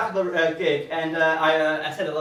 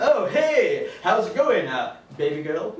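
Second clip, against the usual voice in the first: pretend cool; slower than usual. Comic replying to a girl's text, badly faked cool. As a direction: feign nonchalance, faltering before the pet name. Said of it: "I have to play it really cool".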